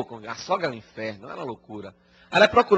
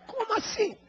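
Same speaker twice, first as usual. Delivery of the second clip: high startled question; surprised; 7 dB quieter than usual. Acted. Daughter-in-law stunned by the sage's answer, high surprise. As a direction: jump up in pitch, caught off guard. Woman shocked by sage's revelation.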